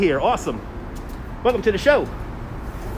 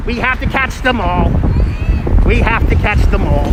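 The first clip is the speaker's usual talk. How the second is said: lightly put-on Pokemon streamer voice; a hint of the Pokemon hunt host; lightly playful game host voice; 2 semitones higher than usual. Shown as a demonstration. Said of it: "You wanna hear the Pokemon voice?".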